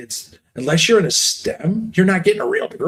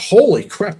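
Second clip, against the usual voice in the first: a sudden higher, louder burst of disbelief; shocked exclamation; 5 semitones higher, 4 dB louder than usual. Retold or imitated. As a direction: blurt it out as if stunned. Retelling shock at counselor's remark.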